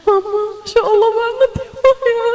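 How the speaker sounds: put-on high, fast little-child voice. Preacher voicing a child amazed by hubabah, high. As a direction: talk like an awed nine-year-old. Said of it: "Anakmu umur sembilan tahun".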